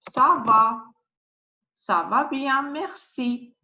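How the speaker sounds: French "ça" starting with S; soft French cedilla. Shown as a demonstration. Teacher giving an example, "ça" said with soft S. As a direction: say "ça va bien, merci" in French, S on "ça". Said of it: "this one is sa".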